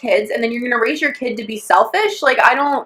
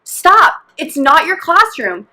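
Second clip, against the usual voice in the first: higher, drawn-out telling-off; retold scolding; 5 semitones higher, slower than usual. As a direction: reenact warning a child to stop. Scolds kid in retold exchange.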